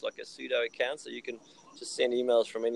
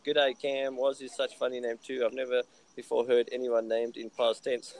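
lightly put-on French accent. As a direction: read it with a hint of French. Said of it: "putting on a French accent was gold".

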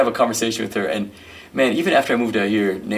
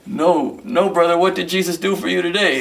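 much higher, louder anxious guess; nervous echo; 9 semitones higher, 4 dB louder than usual. Retold or imitated. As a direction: bluff back nervously, pitched up. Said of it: "and I go".

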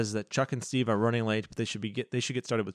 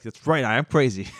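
crazed shout; 4 semitones higher, 7 dB louder than usual. Retold or imitated. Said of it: "And Carly Beth is like".

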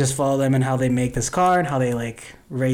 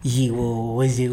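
mouth full of gauze; 2 semitones lower, slower than usual. Retold or imitated. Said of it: "say stuff in an ooh voice".

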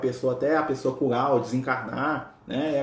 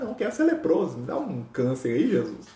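joking. Pretend. Imagining us asked by Jesus what we want, jokingly. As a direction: toss it off like placing an order. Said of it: "Tô brincando".

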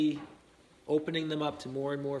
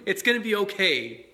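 a laugh, then a bright it's gonna be okay; laughing reassurance; 4 semitones higher, 5 dB louder than usual. Real, not acted. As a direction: laugh it off while reassuring them. Reassuring parents, laughs first.

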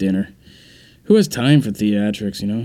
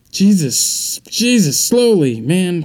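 panicked yelp; 7 semitones higher, 3 dB louder, much slower than usual. Acted. Panicked bath mishap.

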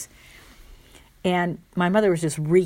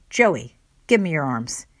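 robber voice; 4 dB louder than usual. Retold or imitated. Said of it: "tone of voice sounded like a robber".

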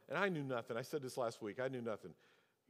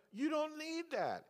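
slow firm retort; 14 semitones higher, slower than usual. Retold or imitated. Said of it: "And I went".

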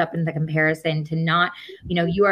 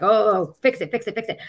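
panicky; 4 semitones higher than usual. Retold or imitated. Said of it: "freaking out in the ego".

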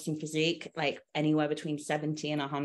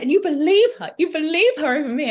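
much higher and louder, betrayed; hurt dramatic shriek; 11 semitones higher, 10 dB louder than usual. Retold or imitated. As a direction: wail it like a wounded diva. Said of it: "She was so dramatic".

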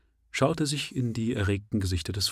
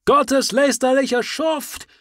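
high, loud, slow outraged shout; full shout; 8 dB louder, slower than usual. Acted. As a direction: scream it with full fury. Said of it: "Das kann besser interpretiert werden".

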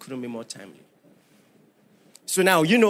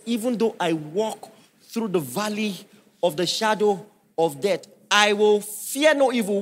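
psalm recited in a measured preaching voice; reciting Psalm twenty-three; scripture recitation. Shown as a demonstration. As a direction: read it as holy verse. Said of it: "the Bible says".

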